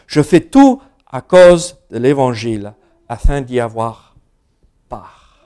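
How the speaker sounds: measured, solemn reading of the passage; scripture reading. Acted. Pastor reading Paul's letter to the congregation, solemn reading. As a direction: read the verses out to the church with weight. Reads Bible passage aloud.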